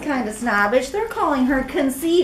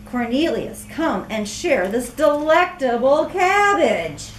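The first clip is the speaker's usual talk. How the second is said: inviting. Acted. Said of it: "Clara inviting a friend".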